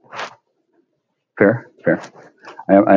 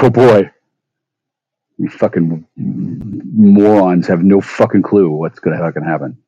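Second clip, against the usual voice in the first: scornful mock; slower than usual. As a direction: sneer it out slowly. Quoting his scornful reaction.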